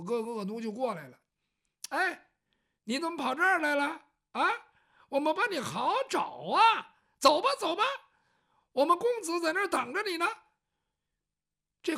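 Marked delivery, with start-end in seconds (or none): 1.9-10.3 higher and louder rough hustling; bullying thug. Acted. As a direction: push her along like a cocky lackey. 恶奴拦住姑娘. (恶奴蛮横地高声催促)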